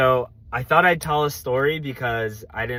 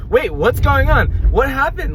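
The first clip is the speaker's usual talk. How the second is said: high, loud startled questions; suddenly called into the jury, startled high and loud; shocked disbelief; 11 semitones higher, 7 dB louder than usual. Retold or imitated. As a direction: blurt it out caught off guard.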